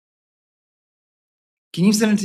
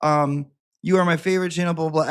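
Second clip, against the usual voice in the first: higher-pitched mock apology; poor little emailer; 7 semitones higher, faster than usual. Host reading out a viewer's apology email, mock pitiful. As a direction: read the email in a small, high put-on voice. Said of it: "Poor little Squirrel Gang sent me an email".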